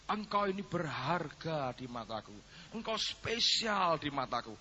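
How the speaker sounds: slow, softened retelling of God speaking; lightly voiced, slow and tender quote; tender divine words. God speaks to the praying wife, slow and tender.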